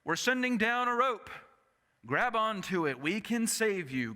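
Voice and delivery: high, loud rescue call; megaphone call from chopper. Retold or imitated. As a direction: shout down from the helicopter. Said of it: "calls through a megaphone".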